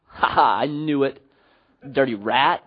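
low gloating mock laugh; re-enacted knowing laugh; acted chuckle. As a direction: chuckle smugly at someone caught. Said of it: "I chuckled. I laughed".

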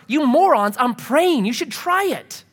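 exasperated sarcastic retort; hammed-up irritated answer; mock irritated snap. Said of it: "And Jesus responds".

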